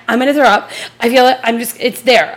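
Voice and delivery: urgent, insistent child, lightly voiced; imitated queasy child. Daughter on phone to mom from nurse's office, mock urgent pleading. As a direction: plead sickness like a kid.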